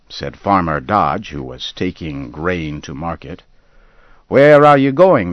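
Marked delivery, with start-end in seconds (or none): 4.3-5.3 higher, louder, friendly call; cheerful question. A narrator's reading. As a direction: ask it out heartily. Neighbor asks cheerfully.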